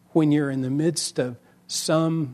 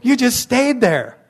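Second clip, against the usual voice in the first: retold critique; 8 semitones higher than usual. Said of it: "but I said".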